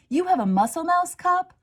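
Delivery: high, loud, thrilled; can't believe her luck, delighted; excited question. Acted. Lily asking Chester, bursting with delight.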